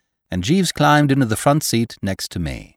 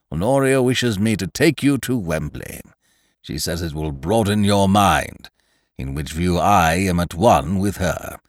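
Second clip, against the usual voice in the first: put-on pompous old gentleman. Voicing pompous Sir Roderick.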